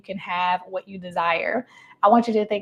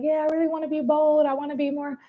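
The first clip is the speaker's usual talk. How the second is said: higher, meek imitation of the client; 6 semitones higher, faster than usual. Coach imitating client who claims she wants boldness, meek and higher. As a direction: mimic her timid, unconvincing wish, pitched up. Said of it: "she was talking like this".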